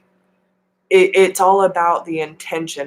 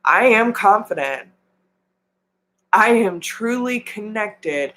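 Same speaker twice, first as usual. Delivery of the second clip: mirror affirmations; 2 semitones higher than usual. Shown as a demonstration. Coach modelling mirror affirmations for viewers, sincere and measured. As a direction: affirm each line as truth. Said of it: "look in the mirror and say".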